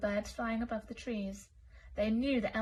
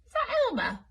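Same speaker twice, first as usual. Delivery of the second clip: astonished lion; 13 semitones higher, 5 dB louder than usual. Acted. Lion sees elephant fly by.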